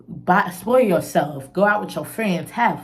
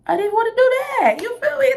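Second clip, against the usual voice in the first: emphatic; 4 dB louder, faster than usual. Real, not acted. Exclaiming about depression.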